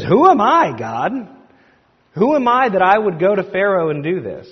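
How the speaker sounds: high, loud incredulous question; acted protest. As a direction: protest to God as a reluctant Moses. Acting Moses's objection to God.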